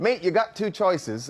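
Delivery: imitating the Australian mayor, slow and friendly, not tough; mock Australian accent. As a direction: say mate like a matey Aussie, slowly. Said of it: "don't sound really tough in Australian when you say mate".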